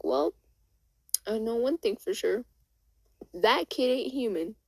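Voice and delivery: acted certainty, building to a reveal; pointed revelation. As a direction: break the news with conviction. Carol reveals kid is alien.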